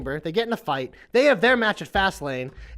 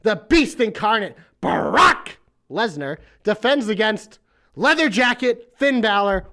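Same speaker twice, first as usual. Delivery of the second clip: ring announcer. Pretend. Announcer reading the match card.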